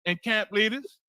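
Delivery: scolding shout. Real, not acted. Preacher scolding the captains.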